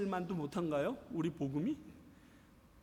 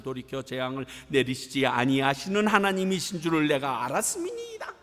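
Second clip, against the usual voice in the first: angry Jonah praying; 5 semitones lower than usual. Acted. Jonah complaining to God in prayer, acted anger. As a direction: build from low grumbling to an indignant peak. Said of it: "요나가 매우 싫어하고 성내며".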